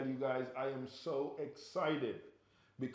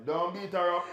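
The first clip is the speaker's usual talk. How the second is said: laughing; 5 semitones higher, 9 dB louder than usual. Real, not acted. Laughing plea to Germany.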